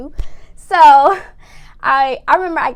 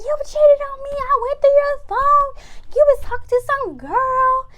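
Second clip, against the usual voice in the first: angry confrontation; 12 semitones higher than usual. Retold or imitated. Confronting cheating boyfriend.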